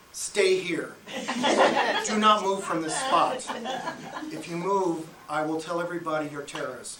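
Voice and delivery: measured mock-militant orders; controlled, stern command with pauses. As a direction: lay down the law, re-enacted. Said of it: "I was getting pretty militant".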